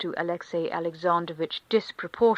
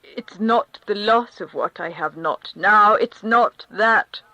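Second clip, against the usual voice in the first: pleading; 2 semitones higher, 9 dB louder than usual. Acted. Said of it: "pursued Alexei Alexandrovitch".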